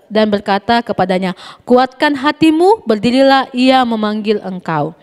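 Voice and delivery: steady, careful reading voice for the Sunday school class; Bible reading aloud. Acted. Teacher reads the Bible story aloud to the kids, clear reading voice. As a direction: read the passage clearly to the children.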